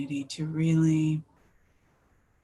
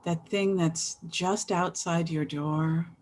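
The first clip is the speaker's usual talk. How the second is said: guided meditation. Real, not acted. Resumes leading the meditation.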